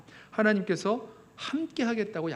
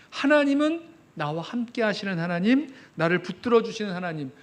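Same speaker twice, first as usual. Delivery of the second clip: usual speaking voice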